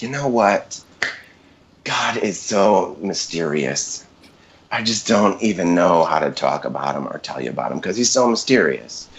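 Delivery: a hint of a gentle motherly lady marveling; sweet mom voice. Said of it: "I'm just gonna use this voice".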